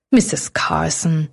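calming butler. A narrator's reading. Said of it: "versuchte der Butler, die Herrin des Landhauses zu beruhigen".

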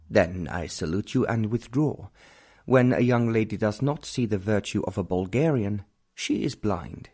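lightly voiced haughty Bulgarian count; a hint of a wounded, stately suitor taking his leave; proud Count. Count's proud farewell speech.

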